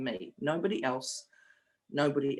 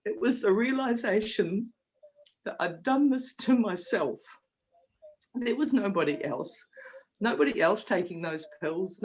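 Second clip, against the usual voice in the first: emotional; 2 semitones higher than usual. Real, not acted. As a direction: voice lifting and straining with real emotion. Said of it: "we get a bit emotional".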